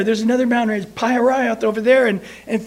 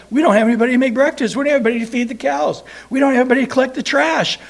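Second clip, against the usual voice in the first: rapid indignant rant; 4 semitones higher, 4 dB louder, much faster than usual. Retold or imitated. Egyptians furious that their slaves are gone, a fast heated rant. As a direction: rattle off the grievances very fast and a bit louder. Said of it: "and angry and mad at God".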